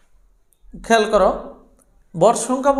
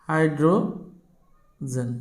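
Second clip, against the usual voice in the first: হাইড্রোজেন stretched out very slowly with a break before জেন; slow dictation; 4 semitones lower, 5 dB quieter, much slower than usual. Real, not acted. Teacher spelling out the first example for students, slow dictation. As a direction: draw out হাইড্রোজেন in two long parts. Dictates word while writing it.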